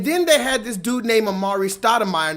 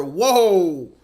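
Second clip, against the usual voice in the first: loud drawn-out whoa; stunned, getting louder; shocked whoa; 10 dB louder than usual. Real, not acted. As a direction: recoil at what you just heard. Reacting to shocking clip.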